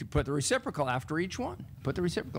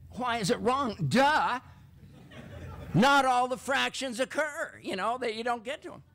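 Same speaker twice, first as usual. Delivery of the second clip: high, exasperated voice with a laugh on duh; mock an eye-rolling student; annoyed student; 8 semitones higher than usual. Mary mocks the teacher's question, exasperated. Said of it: "she was quite annoyed".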